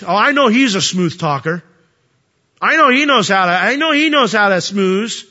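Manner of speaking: God sneering lightly at Aaron's charm; sarcastic. Retold or imitated. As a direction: roll your eyes at the smooth talker. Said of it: "a bit of sarcasm in that tone".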